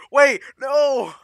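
high, loud laughing protest. Real, not acted. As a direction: laugh out the words. Laughing at a surprise in-game.

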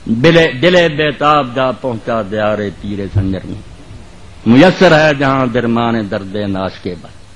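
measured verse declamation, drawn-out syllables; poetry recitation. Acted. Preacher reciting Urdu verse to the congregation, measured declamation. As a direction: recite it line by line, letting vowels stretch.

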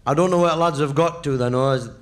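put-on drunk bloke rambling. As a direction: ramble about the lads drunkenly. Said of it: "said he".

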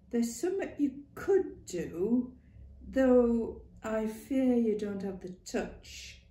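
put-on a stern old Lancashire mother, emphatic; blunt old woman. Ma warning Clara she needs her wits, loud. Ma Duckworth voiced in story.

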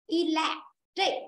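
Electric said slowly, syllable by syllable, landing on "tric"; stress on the second syllable. Shown as a demonstration. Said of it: "Rơi vào chữ trích". (Electric chậm, nhấn vào âm "tric")

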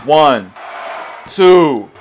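yelling from the sidelines. Real, not acted. Urging the pin count.

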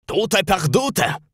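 high, mocking old woman's voice; old housekeeper. Old housekeeper telling Holmes her mistress fled, high and mocking. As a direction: deliver the bad news with relish.

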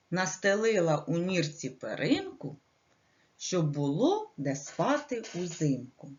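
put-on measured, sing-song verse for little children; poem recitation. Teacher reciting a rhyme to little kids, sing-song. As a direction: recite the rhyme gently to kindergarteners.

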